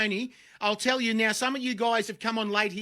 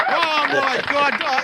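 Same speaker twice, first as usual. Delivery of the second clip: excited; 5 semitones higher, 9 dB louder, slower than usual. Pretend. After shouted goal call.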